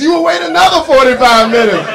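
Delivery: hint of a surly server; mock rude waiter. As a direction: shut the customer down.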